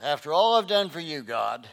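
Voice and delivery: indignant complaint. Retold or imitated. Jeremiah protesting to God, loud and wounded. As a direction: throw it back at God, hurt. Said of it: "That's where Jeremiah's at".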